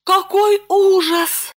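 high, slow cry of horror; horrified gasp. A narrator's reading. Lipochka hearing the bandit may return, slow horrified cry. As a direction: stretch it out in alarm.

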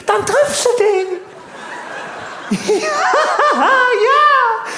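high-pitched giggling through words; laughing. Real, not acted. Comedian laughing at his own internet joke, high and giggly. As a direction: crack up mid-sentence.

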